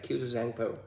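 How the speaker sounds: "Kuzu Zangpo" with an imitated English accent; English speaker's accent. Imitating how foreigners pronounce the greeting, English accent. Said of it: "they pronounce it like".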